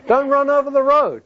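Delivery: high-pitched retold scolding of a child; stern parental warning. Parent repeats warning to son.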